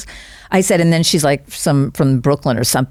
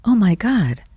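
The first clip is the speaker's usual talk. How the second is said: soliloquy; 5 semitones higher than usual. Retold or imitated. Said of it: "this weird soliloquy".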